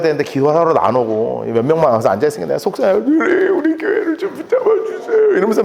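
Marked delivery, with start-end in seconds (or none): 3.0-5.4 high, whimpering prayer voice; hammed-up sobbing plea; imitated tearful prayer. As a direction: act out begging through tears. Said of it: "울면서 기도했다가".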